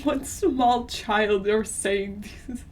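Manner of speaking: slow, laughing-crying disbelief; helpless laughter at the writing. Real, not acted. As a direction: wheeze it out through laughter.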